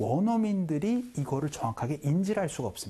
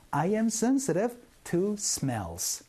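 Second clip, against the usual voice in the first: very slow model sentence, every word spaced out; slow drill; 7 semitones higher, much slower than usual. Shown as a demonstration. Teacher leading the class drill, very slow and clear. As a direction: spell it out slowly for learners to repeat. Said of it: "시작".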